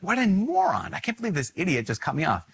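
high, exasperated mock outburst at another driver; mock road rage. A driver who got cut off, mock indignant outburst. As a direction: act out being cut off, annoyed but hammed-up. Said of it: "is be like".

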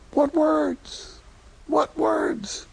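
high, fervent preacher's cry; fervent rhetorical cry. Real, not acted. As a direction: call it out to the congregation.

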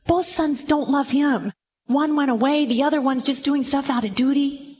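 ordinary talk, nothing marked

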